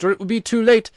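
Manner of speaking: high, loud, urgent; urgent cry. A narrator's reading. The ghost urging Virginia into the cavern, loud and urgent. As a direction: hurry her on in alarm. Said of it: "cried the ghost".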